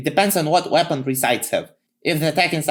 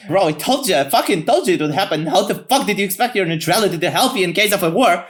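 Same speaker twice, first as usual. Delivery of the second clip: higher, pushed I-told-you-so rebuke; mock exasperated rant; 5 semitones higher, 3 dB louder than usual. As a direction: act out an exasperated scolding. Acted told-you-so quarrel between neighbouring countries.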